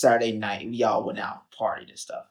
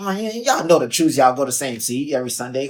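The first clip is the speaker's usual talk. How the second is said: playfully indignant, raised voice; mock protest; 3 semitones higher, 6 dB louder than usual. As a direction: protest higher and louder, half-joking. Playful protest over taken seat.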